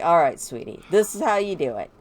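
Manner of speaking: lightly voiced dad showing off his moves; coaching dad. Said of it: "Saffron's like".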